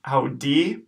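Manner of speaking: audi with AU as ow; audi said ow-dee; syllable demo. Shown as a demonstration. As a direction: model audi. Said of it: "so we've got audi".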